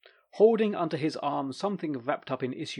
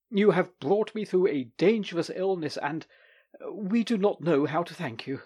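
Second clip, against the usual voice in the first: agitated voice; 4 semitones higher than usual. Acted. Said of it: "said in an agitated voice".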